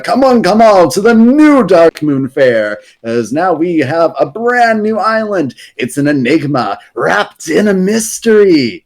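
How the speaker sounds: lightly voiced fair barker calling in the crowd; Silas Darkmoon. Carnival host announcing his new island, showman barker voice. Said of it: "an announcement by Silas Darkmoon".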